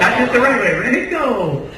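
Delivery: loud, high coaching call; calling out encouragement. Real, not acted. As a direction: cheer the group on over the noise. Coach calls over chanting crowd.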